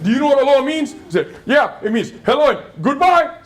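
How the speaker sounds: laughing. Real, not acted. Laughing while retelling.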